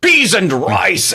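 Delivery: high, loud, drawn-out cry of "peas and rice"; mock TV-safe exclamation. Mocking a censored movie line with a slow high loud cry. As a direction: belt it out slowly like a dubbed-over curse. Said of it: "you hear a guy go".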